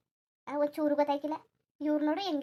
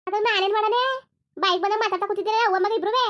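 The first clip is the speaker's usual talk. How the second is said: raised, higher voice, snapping back; angry shouting; 5 semitones higher, 4 dB louder than usual. Acted. Daughter-in-law yells at her mother-in-law, angry shout. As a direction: shout back in anger at the in-laws. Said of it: "ಏನವ್ವ ಹಂಗೆ ಕಿರ್ಚಾಡ್ತಾ ಇದ್ದೀನಿ".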